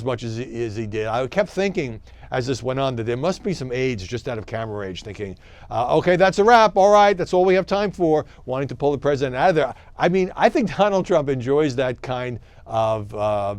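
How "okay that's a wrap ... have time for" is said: pushy shouted reporter questions. Retold or imitated. Voicing aides wrapping up.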